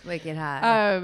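a Boston "Wicked Hod" with some push; Boston accent. Shown as a demonstration. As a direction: punch it like a Boston local. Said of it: "I can do a Boston accent".

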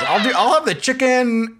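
mock Vince ordering, laughing; laughing imitation. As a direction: giggle through his order. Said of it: "he goes".

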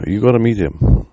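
a mom gushing about her new man; eager mom. Retold or imitated. Mother excited about boyfriend.

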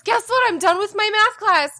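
high bright announcement; excited. Retold or imitated. Announcing to kids.

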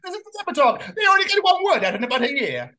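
high mock Italian scorn; Italian accent. Italian making fun of Birmingham talk, high comic Italian accent. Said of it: "does an Italian accent".

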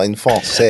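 français said the French way, nasal in, slow; français with a mock French accent, slowly; French pronunciation. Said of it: "French rating".

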